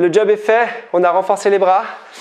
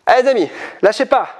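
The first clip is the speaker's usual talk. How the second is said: encouraging shout; 8 semitones higher than usual. Real, not acted. Coach urging through last seconds.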